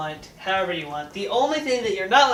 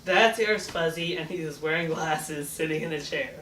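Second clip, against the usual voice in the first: haiku recital; 3 semitones lower, 3 dB quieter than usual. Pretend. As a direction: say it like a little poem, unhurried. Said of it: "I can make one up right now".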